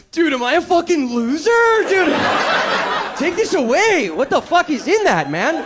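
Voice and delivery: spiral into stoned paranoia; a stoner's anxious outburst at his own weed; paranoid panic. Retold or imitated. Panicked stoned self-talk, shouted.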